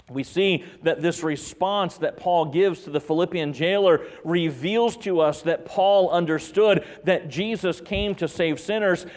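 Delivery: emphatic preaching. Real, not acted. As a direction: preach it out, leaning on key words. Preaches with rising force.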